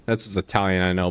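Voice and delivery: ordinary delivery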